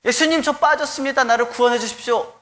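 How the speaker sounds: high, pleading shout of a drowning man; desperate cry for help. Retold or imitated. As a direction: cry out to Jesus from the water. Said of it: "소리 질러 얘기했습니다".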